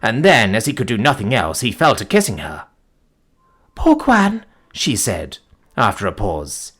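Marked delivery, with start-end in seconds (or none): 3.8-4.5 put-on dying young woman. Dying Folata's voice.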